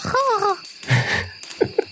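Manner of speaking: a high whispered chirp, mimicking a bird; a tiny high bird trill, whispered, in imitation; little bird purr. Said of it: "She lets out, like, a little".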